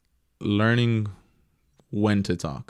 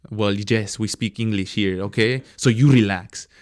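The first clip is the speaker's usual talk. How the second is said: imitated grouchy lady with a heavier accent, building louder; grouchy old lady; 6 dB louder than usual. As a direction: snap back as the grouchy woman, loud on the last words. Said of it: "she was always a grouchy old lady".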